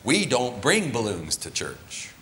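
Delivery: a slow, prim mock of a scolding teacher; preacher gently mocking a strict Sunday school teacher. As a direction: lightly imitate the stern teacher, drawn out. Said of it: "then mocking the teacher's voice".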